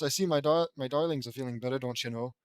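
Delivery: tentative Minnesota mom voice; Minnesota accent. Acted. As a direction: try Minnesota gently, as a rehearsal. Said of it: "Minnesota accent?".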